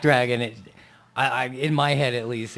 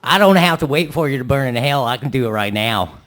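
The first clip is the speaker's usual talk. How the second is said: fiery preacher; 8 dB louder than usual. Acted. Preacher bit.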